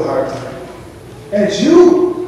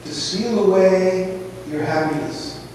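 slow, soft, solemn preaching; slow hushed preaching; 6 semitones lower, 8 dB quieter, slower than usual. Acted. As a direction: draw the congregation in quietly, slowly. Slow quiet preaching passage.

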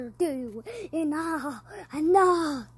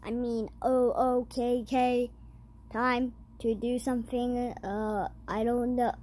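monotone robot voice; 3 semitones lower, 4 dB quieter than usual. Pretend. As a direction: talk like a robot. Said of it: "that was my robot voice".

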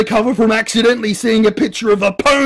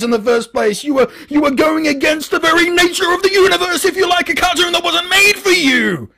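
high, loud, ranting mock voice of a hater; shrill-pitched sneering imitation of the brony haters; 8 semitones higher, 5 dB louder than usual. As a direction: lampoon an indignant scold, building to a shout. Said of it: "This is, this is their reasoning".

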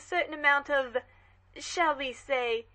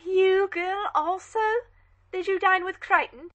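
haughty questioning, a bit higher and louder; a grand lady cross-examining a servant; commanding dowager; imperious demand; 5 semitones higher, 5 dB louder than usual. Acted. Haughty lady interrogating maid.

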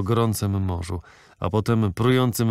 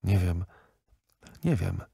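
despairing moan; 3 semitones lower, 4 dB quieter than usual. A narrator's reading. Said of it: "cichy, rozpaczliwy jęk".

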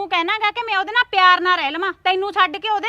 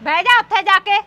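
mocking mimicry. Wife mimics husband's order.

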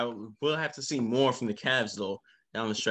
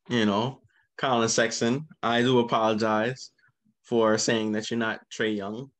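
loud, deliberate apology; emphatic apology; 5 dB louder than usual. Real, not acted. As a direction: announce the apology firmly, word by word. Makes a mock-formal public apology.

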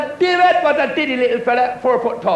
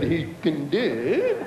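put-on child's voice; 7 semitones lower, 4 dB quieter, much slower than usual. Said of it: "He said".

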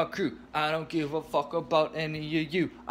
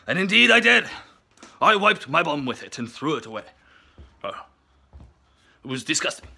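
put-on a light joking Russian accent; 2 semitones lower than usual. Ranting at the lakes in a mock Russian accent. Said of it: "stop talking in Russian voice now".

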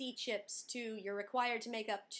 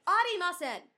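loud flustered denial; 6 semitones higher, 9 dB louder than usual. Retold or imitated. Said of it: "And I'm like".

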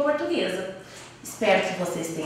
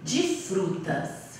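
ditando devagar; 5 semitones lower, 5 dB quieter, slower than usual. Shown as a demonstration. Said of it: "o título da minha receita".

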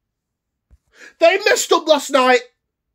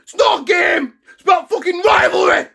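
strained, cracking shout, a bit higher; choked-up angry shout; 3 semitones higher than usual. Real, not acted. Fan rejecting wife's view, real choked-up shout. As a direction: shout it like it really hurts.

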